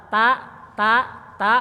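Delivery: "ta" with the tongue flat, light and thin. Shown as a demonstration. Teacher contrasting thin ta with heavy to. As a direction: tap out a thin ta. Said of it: "Kalau ta agak rata".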